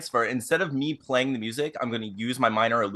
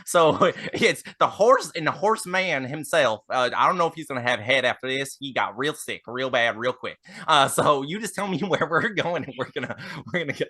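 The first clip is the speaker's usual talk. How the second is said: folksy carriage driver. Acted. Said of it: "Ted Lasso driving this carriage".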